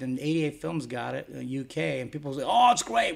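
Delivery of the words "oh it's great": high-pitched mock gushing; mock delight. Label owner mimicking buyers of cheaper UK copies, mock delight. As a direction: imitate a thrilled bargain hunter, voice up high. Mimicking happy bargain-seeking overseas customers.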